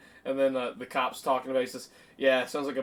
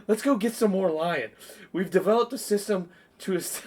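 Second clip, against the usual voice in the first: higher and louder, hammed-up threat; comic mock-serious threat; Will Ferrell quote; 5 semitones higher, 4 dB louder than usual. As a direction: lay out the tuna's battle plan with mock menace. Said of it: "and then Will Ferrell goes".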